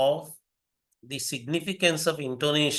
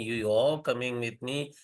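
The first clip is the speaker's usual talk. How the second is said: "are" picked out from the other words; stress on ARE. Shown as a demonstration. Lecturer demonstrating how stress shifts meaning, stress on "are". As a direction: put the emphasis on "are". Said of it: "stressing different parts of the sentence".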